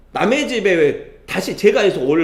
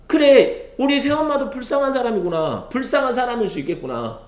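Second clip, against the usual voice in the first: higher-pitched, acted dawning sympathy; pitying realization; 7 semitones higher than usual. Stepson realizing his stepmother deserves pity, compassionate realization. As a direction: voice a sudden realization, pitched up and easing down.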